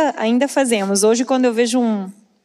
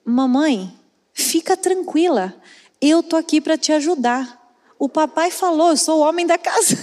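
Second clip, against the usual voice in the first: lightly voiced small boy, a bit higher, reassuring mom; little son's voice; 4 semitones higher than usual. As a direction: play her proud little son promising to help. (voz de menino pequeno, um pouco mais aguda)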